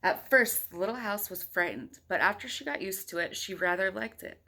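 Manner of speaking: put-on reading a picture book aloud to a child; steady storybook read-aloud; story narration. A narrator's reading. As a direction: tell it like a bedtime story. Parent reads picture book aloud.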